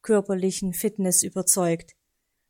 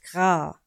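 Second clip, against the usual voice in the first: Rabenkrächzen; 2 semitones lower than usual. A narrator's reading. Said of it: "gab ihm Meister Schwarzrock mit".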